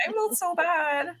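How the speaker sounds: milk the guilt; mock sad. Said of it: "I was like".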